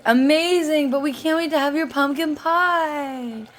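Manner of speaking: put-on high, loud eager kids; imagined kids' reply. Children telling mom they want pie, high and eager. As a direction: answer like keen children. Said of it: "And they'll say".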